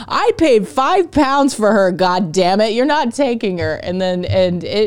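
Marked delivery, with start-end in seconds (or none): 0.1-3.8 mock father. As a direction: lightly play a blustering father. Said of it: "her dad shows up ... he's like".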